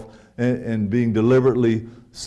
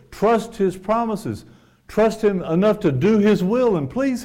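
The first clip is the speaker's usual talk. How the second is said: fervent preaching; 9 semitones higher, 4 dB louder than usual. Acted. Preacher rising to an appeal.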